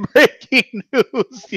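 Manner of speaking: slow, high mock anchor; news anchor voice. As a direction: announce it like a newscaster. Echoing the news announcer bit.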